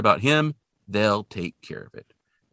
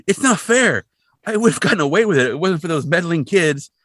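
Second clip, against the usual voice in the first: loud, high cartoon villain rant; indignant villain protest; 7 semitones higher, 8 dB louder than usual. Arrested developer to the heroes as he's hauled off, loud indignant protest. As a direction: cry foul like a foiled crook.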